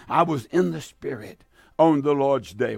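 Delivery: reading the verse out in a sermon; solemn preacher reading; scripture reading. Acted. Radio preacher reads Revelation, solemn reading.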